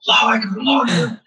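put-on squeaky kid scream. Little kid screaming Allahu Akbar from atop rice stacks, high shout. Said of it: "a squeaky voice screaming his head off".

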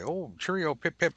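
high, hammed-up posh British put-on; mock British. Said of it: "idiots like me who think it's fun to say".

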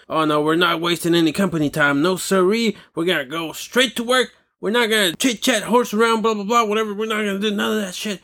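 lightly put-on goody-two-shoes refusal to waste time; mocking eager coworkers. Imitating eager coworkers refusing to chit chat, mocking.

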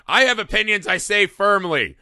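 pompous opinion voice, lightly done; lightly mocking a know-it-all pundit. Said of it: "she's just everyone on Fox News".

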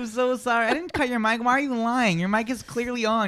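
high, fake-innocent teasing; mock apology. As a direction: feign regret while needling her. Mock apology over cut mic.

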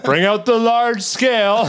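high mock voice. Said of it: "They're like".

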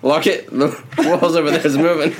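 light Australian accent, casually delivered. Shown as a demonstration. Showing friends how the clue was hidden, Australian accent. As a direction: repeat the line in an Australian accent. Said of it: "Say it with the Australian accent".

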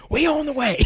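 high, laughing cop voice; mock cop radioing in through laughter. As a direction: giggle through the radio reply.

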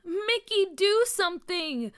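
high, loud plea for help; panicked demand. A narrator's reading. Nathaniel calling on Mickey in the box, panicked demand. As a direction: urge a friend to act now.

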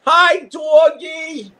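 high, slow, sing-song dog greeting. Real, not acted. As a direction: coo at the dog.

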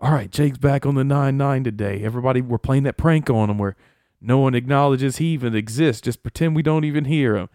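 imitated keen organizer; Charles rallying everyone. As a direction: lay out the prank to the team. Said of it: "Where Charles is like".

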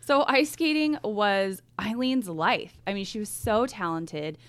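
measured true crime storytelling; suspenseful crime show narrator. Acted. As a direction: tell the case calmly, with weight. Reads the case background.

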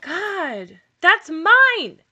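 excited scolding. Real, not acted. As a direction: yell at the dog to stop. Scolding dog over stuffed animal.

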